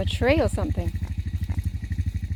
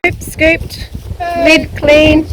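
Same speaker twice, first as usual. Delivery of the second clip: playful sing-song; 7 semitones higher, 9 dB louder, slower than usual. Real, not acted. Cheery rhyming summary.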